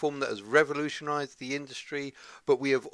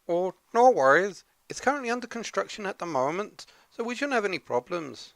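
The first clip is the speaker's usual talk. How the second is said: higher put-on Scottish accent, breezy; 5 semitones higher, 4 dB louder than usual. Sidekick brushing off the unfinished room, mock Scottish accent. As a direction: reassure in a hammy Scottish voice. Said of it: "put on this weird Scottish accent".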